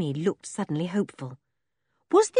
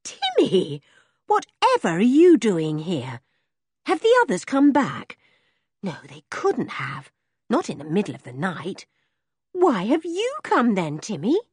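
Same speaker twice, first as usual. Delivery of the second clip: put-on girl Henry, puzzled; 2 semitones higher than usual. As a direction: wonder aloud at the dog.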